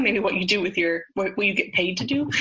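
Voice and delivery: ordinary delivery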